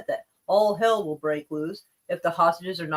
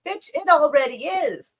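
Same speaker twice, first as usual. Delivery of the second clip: louder, slow, higher scornful comeback; exasperated retort; 8 semitones higher, 5 dB louder, slower than usual. Real, not acted. Streamer scoffing back at Trump's threat, slow and loud. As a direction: throw it back at him, slowly.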